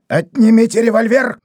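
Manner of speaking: high loud order; приказ; commanding shout. A narrator's reading. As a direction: bark the order. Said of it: "приказал доктор Фурман".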